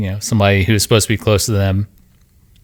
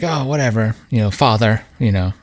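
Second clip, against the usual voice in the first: put-on Mid-Atlantic accent; 3 semitones higher than usual. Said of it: "that old, like, uh, Mid-Atlantic".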